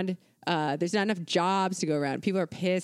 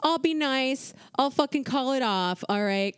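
retold politician's quote; 5 semitones higher than usual. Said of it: "he was like".

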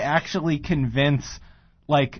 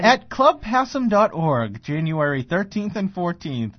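monster truck announcer; 3 semitones higher than usual. Acted. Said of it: "monster truck this one up".

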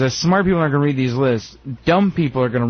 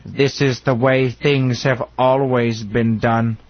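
mock solemn; 4 semitones lower, slower than usual. Slow mock solemn statement of tradition.

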